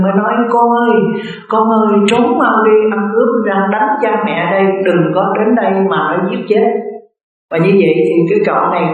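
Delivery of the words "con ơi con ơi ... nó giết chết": parents crying out. Retold or imitated. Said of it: "hai ông bà mới la lên".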